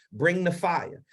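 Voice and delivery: ordinary talk, nothing marked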